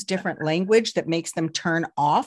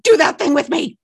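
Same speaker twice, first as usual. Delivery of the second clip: hammed-up higher, louder wife's request; playful wife; 8 semitones higher, 10 dB louder than usual. Husband retelling wife's playful phone request. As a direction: ask for it eagerly, playfully. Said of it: "My wife called me at work".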